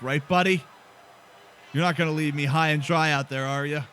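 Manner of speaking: a lightly done, bad Irish brogue for Sheamus; bad Irish accent. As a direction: keep the clumsy Irish lilt, barely shifted. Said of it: "This is a terrible accent".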